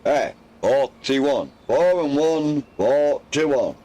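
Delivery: slow, drawn-out bingo number call; bingo caller. Shown as a demonstration. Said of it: "I sounded like a bingo caller then".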